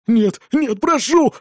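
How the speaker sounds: wailing plea. A narrator's reading. Father begs not to be enslaved, wailing plea. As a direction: beg in rising panic. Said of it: "запричитал мужик".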